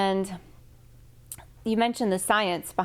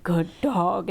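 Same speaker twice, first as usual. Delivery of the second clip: deep flat praise; gruff plain praise for the dog; man's low dog praise; 3 semitones lower than usual. Retold or imitated. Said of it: "all the men are like".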